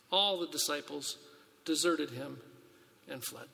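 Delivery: measured, solemn reading of the Gospel; steady pulpit reading voice; scripture reading. Acted. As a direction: read it to the congregation like a lesson. Reads the Gospel passage aloud.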